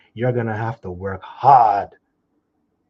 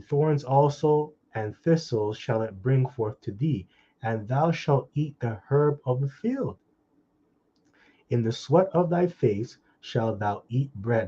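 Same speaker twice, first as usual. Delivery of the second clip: slow solemn reading; scripture reading; slower than usual. Acted. Preacher reading the verse of thorns, slow solemn voice. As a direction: intone each clause slowly.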